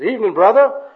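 loud, high, hammed-up greeting; booming pious hello; eager personal worker. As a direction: hail them like an overeager evangelist. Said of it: "So he approaches the fellow".

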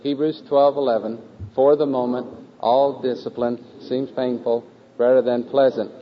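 slow, measured choral recitation; group recitation lead. Acted. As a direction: lead the class word by word, each phrase set apart.

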